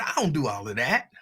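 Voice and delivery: a light put-on music DJ voice with a rising end; music DJ imitation. Imitating a music DJ brushing off staff, lightly voiced. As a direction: lightly mimic a breezy radio DJ brushing off the request. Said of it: "That's my imitation of a, of a, a music D J".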